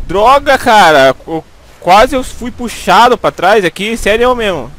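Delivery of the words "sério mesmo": ordinary talk, nothing marked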